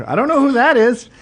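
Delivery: mock innocent denial. Denying friend, mock innocence.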